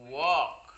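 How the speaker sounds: "walk" said as "wok", L silent; "walk" pronounced like "wawk". Shown as a demonstration. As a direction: leave the L out of "walk". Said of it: "coba bacanya".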